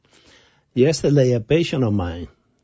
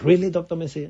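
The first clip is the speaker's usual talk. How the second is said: higher-pitched, excited question; retold excitement; 7 semitones higher, faster than usual. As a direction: imitate her thrilled disbelief. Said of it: "So she got so excited".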